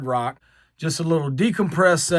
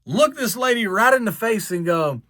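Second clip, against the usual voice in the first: ordinary talk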